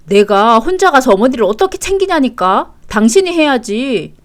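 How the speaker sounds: loud, insistent protest; exasperated. Acted. Husband demanding wife care for his mother, exasperated. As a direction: throw the duty back at the other person.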